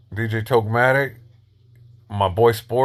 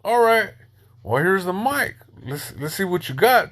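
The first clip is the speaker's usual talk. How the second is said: higher, daring "show me" tone; mock challenge; 7 semitones higher than usual. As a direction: hand him the mic with a higher challenge. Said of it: "I'm taking it like".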